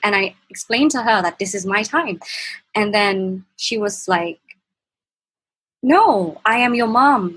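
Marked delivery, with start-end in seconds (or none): 5.8-7.3 mother's retort, higher and louder; imitating mom raising her voice; retold shout. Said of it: "she started shouting at me".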